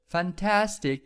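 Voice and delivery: Fantastic with the middle syllable TAS punched high; stress on TAS. Shown as a demonstration. Teacher showing students the stressed syllable, fan-TAS-tic. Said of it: "there is a stress here".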